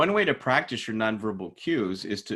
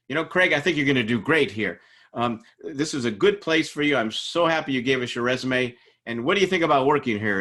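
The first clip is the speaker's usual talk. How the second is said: higher, louder upbeat job interviewer; eager interviewer; 3 semitones higher, 5 dB louder than usual. Acted. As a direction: gush encouragingly at the candidate. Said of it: "interviewer says to you".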